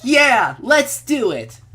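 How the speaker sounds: put-on eager girl voice. Girl character agreeing.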